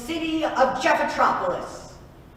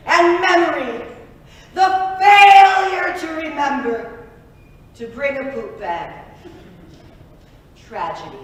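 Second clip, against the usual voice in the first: mock epic wail; 4 semitones higher, 7 dB louder than usual. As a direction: belt it like a tragic hero.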